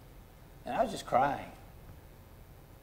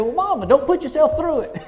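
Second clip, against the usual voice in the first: high, loud, breaking into laughter; laughing through the quote; 13 semitones higher, 5 dB louder than usual. Retold or imitated. Preacher retelling his brother's sass to mama, laughing. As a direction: tell the cheeky punchline while cracking up.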